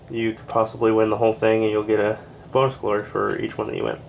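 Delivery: running out of breath; winded, short of air. Real, not acted. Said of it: "I'm running out of breath".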